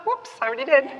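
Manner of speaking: laughing whoops, high and giggly; giggling at her own joke. Real, not acted. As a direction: laugh at your own slip.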